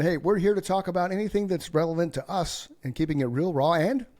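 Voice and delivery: high, slowing host announcement; show intro voice. Pretend. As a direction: announce the show schedule like a promo.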